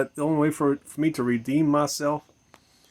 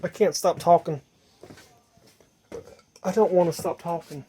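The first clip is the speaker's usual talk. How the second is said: mock compulsive rambler; 4 semitones higher than usual. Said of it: "I'm just like".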